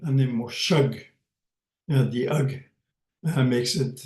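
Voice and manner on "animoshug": Animoshug said clearly with falling tune; model word. Shown as a demonstration. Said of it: "plural, it's animoshug".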